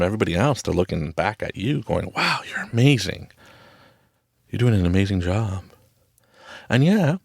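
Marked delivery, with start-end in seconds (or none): 2.1-5.6 admiring wow. Retold or imitated. Imitating admirers looking back at you.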